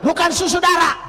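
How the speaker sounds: "susudara" shouted as the mistake; wrong form rejected. Shown as a demonstration. Preacher scolding the mangled greeting, shouting "susudara". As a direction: bark out "susudara" as the word not to say. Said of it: "ngomong yang betul".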